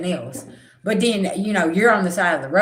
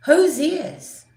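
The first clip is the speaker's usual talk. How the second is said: puzzled high question; 8 semitones higher than usual. Retold or imitated. Kids asking at a funeral.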